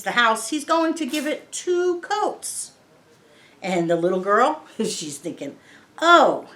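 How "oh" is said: surprised. Retold or imitated. Girl surprised at two coats.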